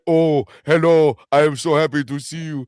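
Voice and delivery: mock British accent. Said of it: "His accent is like".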